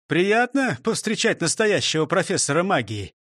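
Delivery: mildly deferential greeting; respectful. Acted. Constable meets a supposed magic professor, respectful. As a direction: greet him with measured respect. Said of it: "сказал он почтительно".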